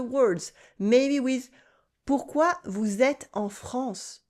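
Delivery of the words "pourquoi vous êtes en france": slow, gentle repeat of the question; slow it down kindly for a learner; gently slower. Acted. Stranger repeats the question for the tourist, slow and gentle. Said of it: "gently slower".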